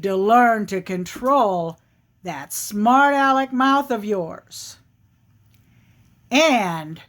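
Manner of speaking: firm, deliberate bear with heavy pauses; grudging admission turning to measured threat; displeased bear. Acted. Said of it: "And he said".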